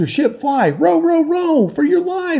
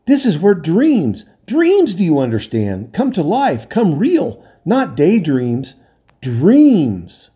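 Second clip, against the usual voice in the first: enraged castaway shaking the sailors; furious rant; 9 semitones higher than usual. A narrator's reading. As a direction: hammer the warning home. Enraged man rebukes sailors.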